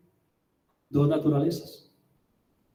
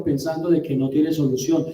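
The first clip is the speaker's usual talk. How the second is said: ordinary delivery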